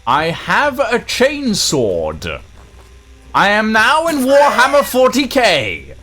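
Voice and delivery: thrilled with the new weapon; excited. Real, not acted. Excited about new chainsword.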